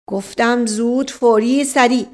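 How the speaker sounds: insistent police order; impatient inspector. Acted. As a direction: cut in and demand speed. Inspector interrupts the stalling.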